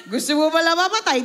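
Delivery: quick laughing jab. Real, not acted. Preacher laughs at Elijah's wish to die. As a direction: tease while laughing.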